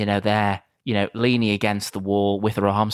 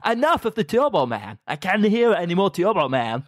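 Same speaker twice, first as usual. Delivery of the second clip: much higher exasperated mum; hammed-up annoyed mother; fed-up mum voice; 8 semitones higher than usual. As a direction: snap at the Turbo Man talk. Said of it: "And she goes".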